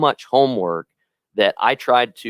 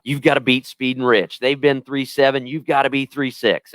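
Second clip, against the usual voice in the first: higher-pitched, lightly voiced rodeo commentary; a hint of an announcer setting up the tenth round; self-announcing kid; 5 semitones higher than usual. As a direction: call your own big run as in childhood play. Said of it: "I would talk to myself like it's the tenth round".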